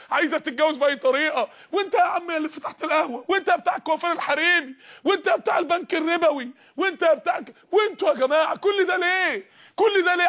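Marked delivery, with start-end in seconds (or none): 1.7-10.3 raised, higher preaching voice rising to a shout; preaching call-out. Real, not acted. Preacher calling out sinners. (نداء وعظي بصوت عالٍ يتصاعد)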